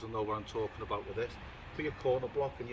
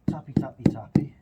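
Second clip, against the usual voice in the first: playful loud; 10 dB louder than usual. Real, not acted. Tapping tile down, playful chant.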